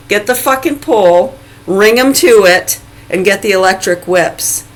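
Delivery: loud, angry, barked commands; angry ranting tone. Real, not acted. Ranting to viewers, demanding punishment in a loud angry voice. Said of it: "I gotta stop using that tone".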